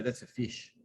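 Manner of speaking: "fish" said the Australian way, toward feesh; Australian "That's a fish"; Australian accent. Shown as a demonstration. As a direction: say "fish" with an Aussie ee-like vowel. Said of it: "And they'd say".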